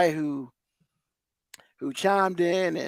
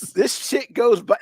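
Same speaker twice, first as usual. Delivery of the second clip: louder and higher, dragged out slowly; drawn-out furious complaint; slow angry emphasis; 5 semitones higher, 6 dB louder, slower than usual. Real, not acted. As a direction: hammer each word in anger. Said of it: "you might wanna check your pressure after this".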